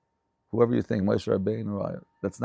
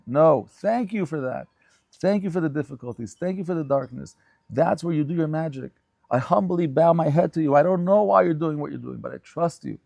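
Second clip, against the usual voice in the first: raised, louder voice of grateful surrender; fervent prayer; 4 semitones higher, 5 dB louder than usual. Acted. Teacher voices a prayer to Hashem thanking Him for darkness, fervently. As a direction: pour out thanks, building in force to the humble bow.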